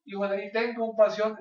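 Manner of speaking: loud, high sustained plea; imitated calling out. Blind men shout after the Son of David, imitated calling out. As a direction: imitate someone crying out for mercy. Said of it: "Le gritaban".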